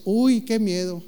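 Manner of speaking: mock fear. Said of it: "Y luego dice Dios".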